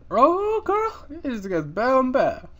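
high, loud delighted squeal; thrilled high squeal. Real, not acted. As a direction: shriek with delight at the haul. Thrilled at loot.

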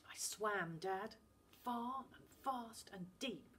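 put-on boy standing his ground; insistent boy. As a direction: insist it really happened. Finn insists.

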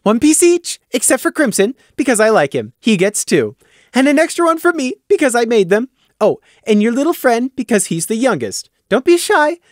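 very high, loud, chirpy voice; bubbly mayor. Acted. Taffy shares out toffee, very high and chirpy. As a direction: dole out treats gleefully.

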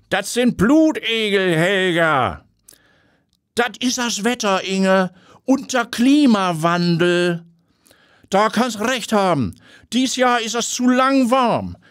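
put-on high, slow, fussy northern old-woman chatter; lightly northern, matter-of-fact grannies; gossiping old ladies. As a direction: play two busybody bathers sure of themselves. Two gossiping bathers chat.

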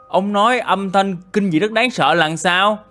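puzzled echo. Acted. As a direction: repeat it back, asking for an explanation. Questions villager's words back.

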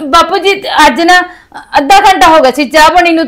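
a tearful catch in the voice; whimpering plea. Acted. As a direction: plead with a little cry. Daughter-in-law pleads, hurt. (ਰੋਣਹਾਕੀ ਆਵਾਜ਼ ਵਿੱਚ ਮਿੰਨਤ)

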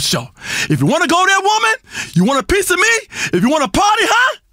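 hammed-up rising threat; hammed-up radio guru blowing up; mock anger. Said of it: "You're getting all angry again".

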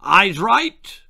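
high, loud drill command; parade-ground shout. A narrator's reading. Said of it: "shouted the new turkey".

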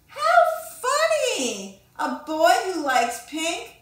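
high, loud laughing jeer; mocking laugh. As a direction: laugh at her to put her down. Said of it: "Everyone on the bus laughed".

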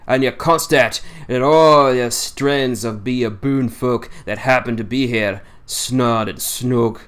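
lightly voiced old seaman in thick dialect, scornful; a hint of a crusty old fisherman railing against lies; old Yorkshire sailor. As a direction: grumble it like a cantankerous old salt holding court. Swales continues.

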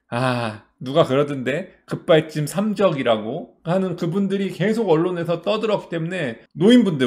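usual speaking voice

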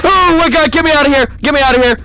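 loud terrified plea; scared gamer shouting to be let out; frightened shouting. Real, not acted. Jump scare in game.

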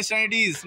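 "स्टैनिटीज" as one fused word; run-together form. Shown as a demonstration. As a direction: say "स्टैनिटीज" without separating stand, at, ease. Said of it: "बता ही नहीं पाएंगे".

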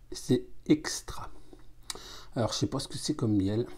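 glass held at lips; sipping between words; talking into a glass. Real, not acted. Seen 0: Glass pressed to lips throughout the words, sipping while talking.

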